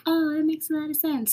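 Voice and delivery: high, quick, sing-song mock kindness; mock sweet. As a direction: parody an overly sugary reassurance. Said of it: "They're not always, like, gentle and loving".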